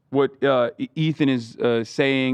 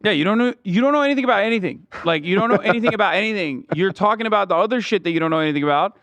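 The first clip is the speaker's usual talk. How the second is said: exasperated rant; 7 semitones higher, faster than usual. Real, not acted. Mocking guest's ignorance, exasperated.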